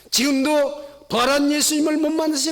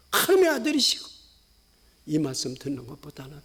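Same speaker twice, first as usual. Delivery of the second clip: ordinary delivery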